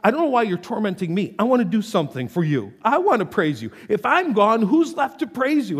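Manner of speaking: casual pleading voice; pleading paraphrase. Retold or imitated. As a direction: plead urgently with God. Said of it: "he basically says".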